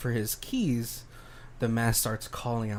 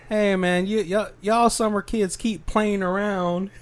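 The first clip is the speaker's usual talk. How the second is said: imitating a sheriff's Cajun accent, higher and louder; 7 semitones higher, 3 dB louder than usual. Podcast host imitating the small-town sheriff in a Cajun accent. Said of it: "it was a Cajun accent".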